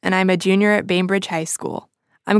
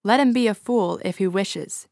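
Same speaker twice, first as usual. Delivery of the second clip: sharp. Acted. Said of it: "she said sharply".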